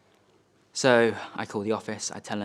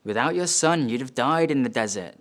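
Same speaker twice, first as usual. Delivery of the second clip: higher-pitched, emphatic reporter's line; eager journalists; 3 semitones higher, 5 dB louder than usual. Acted. Journalists to dad after his recovery, higher and emphatic. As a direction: play a journalist impressed by the rescue. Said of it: "Uh, they say".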